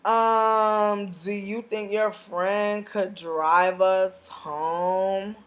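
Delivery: slow, dopey mock voice of the guys asking for a ride. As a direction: drag it out like a clueless guy asking a favor. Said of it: "These niggas was like".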